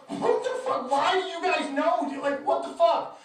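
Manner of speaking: high, loud incredulous outburst; retold exasperated disbelief. To fans who knew about her, exasperated disbelief. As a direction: pitch shoots up in mock outrage. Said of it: "I'm like".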